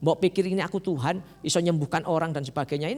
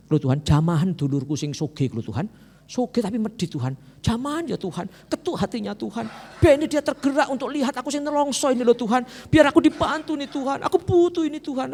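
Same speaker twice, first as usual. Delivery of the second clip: mock whiny prayer; 8 semitones higher than usual. Preacher mocking a believer dictating to God in prayer. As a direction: whine at God like a beggar. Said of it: "dikte Tuhan".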